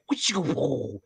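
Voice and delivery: mock fight sound effect. Shown as a demonstration. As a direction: whoosh it like a spell. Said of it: "I made that sound".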